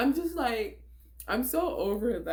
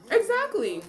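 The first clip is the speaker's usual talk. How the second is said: loud exactly; 10 semitones higher, 7 dB louder than usual. Real, not acted. Emphatic agreement with a remark.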